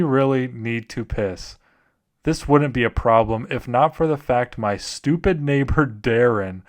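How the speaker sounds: deliberate narration with a slip of laughter; story narration. Acted. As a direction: read the absurd story with mock gravity. Reads horror stories aloud.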